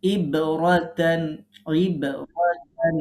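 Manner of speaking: ইব রতান very slow, with a push on the b of ইব; teacher modelling the jolt on ইব; qalqala push. Shown as a demonstration. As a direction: give the b in ইব a small jolt, slowly. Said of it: "ধাক্কা দিতে হবে".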